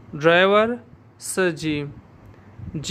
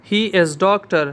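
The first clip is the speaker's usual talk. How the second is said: he is doctor, drawn out word by word; slow dictation; 3 dB louder, much slower than usual. Shown as a demonstration. Teacher dictating to the class, slow and clear. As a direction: dictate it slowly. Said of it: "पुश लाओ श".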